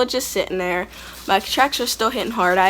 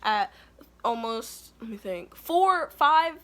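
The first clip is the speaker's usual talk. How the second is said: mild mock anger; 4 semitones higher, 4 dB quieter than usual. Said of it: "I curse him out".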